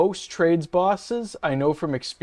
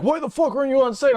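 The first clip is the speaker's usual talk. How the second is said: mock angry boss; 11 semitones higher, 3 dB louder, faster than usual. Boss yelling on the phone.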